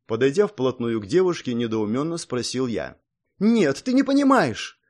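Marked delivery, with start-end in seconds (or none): 3.4-4.8 high, loud half-hysterical cry; hysterical outcry. A narrator's reading. Girl cries out hysterically at the hero, pulling away. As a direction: cry out in a panic. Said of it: "Слегка истерично выкрикнула она".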